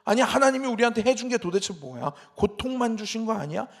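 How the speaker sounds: imitating a people's indignant grumble; mounting complaint. Israelites grumbling at God over their suffering, mock complaint. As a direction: act out growing discontent with God. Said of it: "막 이렇게 점점 불평이 커져가는".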